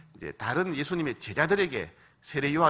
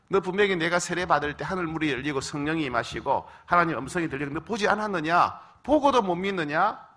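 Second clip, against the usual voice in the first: rebuking Jesus; 3 semitones higher, 3 dB louder than usual. Pretend. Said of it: "라고 책망할 수 있잖아요".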